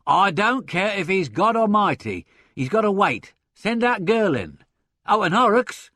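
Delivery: loud, high hectoring boss; bellowing. A narrator's reading. Boss to secretary from inner office, bellowing. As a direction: bellow orders through the door. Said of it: "the bellowing voice was heard to observe".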